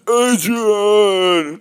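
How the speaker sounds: high, loud drawn-out mock yell; hammed-up agonised cry across a boxing ring; Rocky yelling in agony. Correcting co-host on Rocky's agony, high anguished shout. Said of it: "When he's yelling in agony. He goes".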